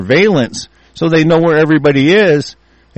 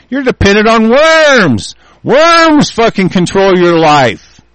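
slow, louder angry rant on worms; ranting shout; 7 semitones higher, 4 dB louder, slower than usual. Real, not acted. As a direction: hammer each word, slow and furious. Ranting about worms controlling life.

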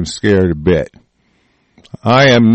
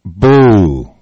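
mock boo; 2 semitones lower than usual. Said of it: "it ain't scaring me".

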